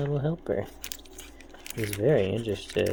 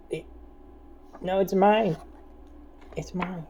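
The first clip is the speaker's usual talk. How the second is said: possessive whining; 9 semitones higher than usual. Pretend. Voicing cat grabbing the pack.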